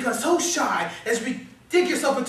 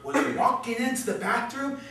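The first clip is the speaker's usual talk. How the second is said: needling; 4 semitones lower, 4 dB quieter than usual. Acted. Inner voice needles self.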